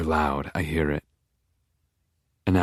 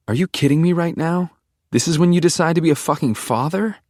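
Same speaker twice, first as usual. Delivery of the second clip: high, incredulous daughter's protest; indignant outburst; 10 semitones higher than usual. A narrator's reading. Daughter arguing with her father over a cigarette, high and indignant. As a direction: pitch it high in outraged disbelief.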